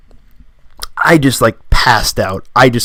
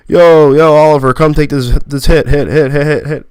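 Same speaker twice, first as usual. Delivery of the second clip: higher, louder hype calling a friend over; hyped urging; 4 semitones higher, 4 dB louder than usual. Retold or imitated. Friend on the deck urges Oliver to take a hit, hyped. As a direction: egg him on, chanting hit.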